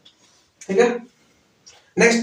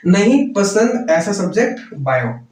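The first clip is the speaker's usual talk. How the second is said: slow mnemonic recital; slower than usual. Shown as a demonstration. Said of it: "याद इसे क्या करना है?".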